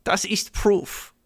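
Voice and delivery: put-on high, slow German accent; exaggerated German, each word stretched; mock German accent. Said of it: "Is that racist too?".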